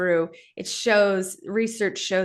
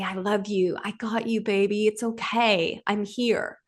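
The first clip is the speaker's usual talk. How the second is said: tender father; slower than usual. Retold or imitated. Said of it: "you'd wrap your big, strong arms around her".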